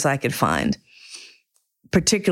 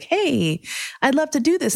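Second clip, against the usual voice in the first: eager; 10 semitones higher than usual. Retold or imitated. Eager quote to shop staff.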